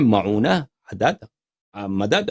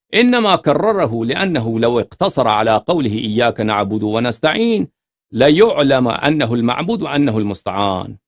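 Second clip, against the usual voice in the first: slow, measured reading of classical Arabic text; slow scholarly recitation; formal Arabic reading; 4 dB louder, slower than usual. Acted. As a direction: read the commentary out deliberately, word by word. Reads Arabic commentary aloud.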